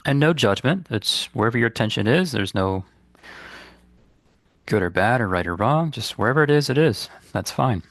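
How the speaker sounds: calm, unhurried guidance with long pauses; guided meditation. Real, not acted. Meditation teacher guiding listeners to release guilt, calm and unhurried. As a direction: lead listeners gently inward, leaving space between phrases.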